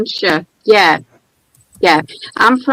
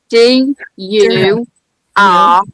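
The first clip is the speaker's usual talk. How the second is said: spelling it out; much slower than usual. Real, not acted.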